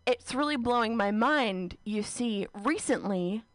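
slow, careful nervous admission; awkward slow confession to a crush. Retold or imitated. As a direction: confess it slowly, voice rising. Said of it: "I was saying these words".

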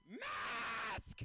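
loud, high scream of one word; shrill-pitched mock outrage, drawn out; imitated scream. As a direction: scream it at someone a hundred yards away. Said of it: "pulls down her mask and screams".

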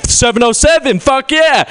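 high, hammed-up hometown pride shout; whooping mock excitement; overexcited local. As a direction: cheer it like a rabid fan. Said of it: "gets really excited about its own area code".

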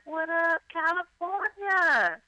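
hyped stand-up host. Retold or imitated. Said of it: "I'd be like".

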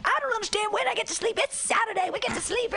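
mock high voice of a bewildered woman; confused naked lady. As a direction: whine it like a confused woman just woken.

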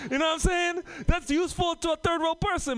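real excited shout. Real, not acted. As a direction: yell it to the crowd.

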